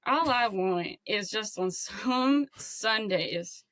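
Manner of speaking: slow, subdued wistful sports fan; Herbie. Acted. Caller wishing for good Sundays, slow wistful character voice. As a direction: plead modestly, drawing the words out. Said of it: "I'm gonna be a new character now".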